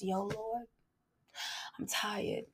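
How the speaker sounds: lightly voiced plain-hearted prayer; honest prayer. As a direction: pray it simply, tired. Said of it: "Sometimes it's just".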